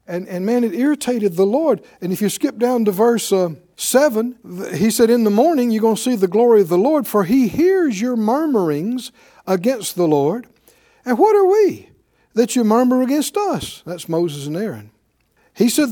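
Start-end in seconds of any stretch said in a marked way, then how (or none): 5.1-13.8 full-force preaching. Acted. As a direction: preach it out to the congregation.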